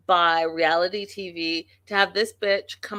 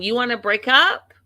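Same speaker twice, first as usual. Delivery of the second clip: raised, louder quote of an angry wife; retold scream; 5 semitones higher, 6 dB louder than usual. Vlogger imitates wife confronting husband, retold scream. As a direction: start the mock yell, pitched up. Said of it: "she's screaming".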